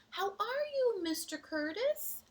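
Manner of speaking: high, bright hello; high cheerful greeting. Acted. Seahorse greeting Curtis, high and cheerful.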